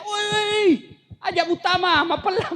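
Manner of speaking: mild retold shout of warning; mock shout. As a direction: call out in Bugis like a warning, hammed up. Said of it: "dia teriak".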